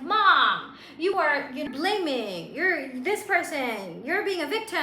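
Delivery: high, emphatic retold scolding of mom; hammed-up accusing; in everybody's face. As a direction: lecture mom in a mock-pushy way. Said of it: "I would be in everybody's face".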